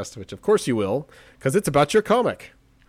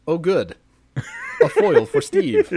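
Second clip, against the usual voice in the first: squealing delight, high and slow with a laugh; gleeful; 4 dB louder, slower than usual. Retold or imitated. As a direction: squeal it out like a gift arrived. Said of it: "I'm like".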